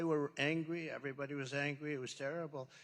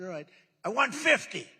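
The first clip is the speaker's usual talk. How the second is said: retold firm demand; 4 semitones higher, 9 dB louder than usual.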